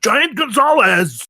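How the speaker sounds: high, slow triumphant answer; proud exclamation. Acted. Bigfoot answering Anthony's question, proud exclamation. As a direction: announce it grandly.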